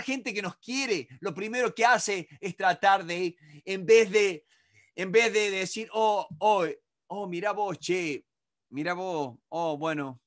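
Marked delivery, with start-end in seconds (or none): 5.9-10.2 empathetic listening. Shown as a demonstration. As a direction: invite them to keep talking gently. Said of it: "Eso es como yo tengo que decir". (escucha empática y suave)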